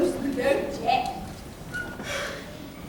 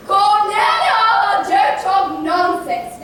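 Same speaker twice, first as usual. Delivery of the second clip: scolding; 4 dB louder, much slower than usual. Acted. Mother scolding daughter.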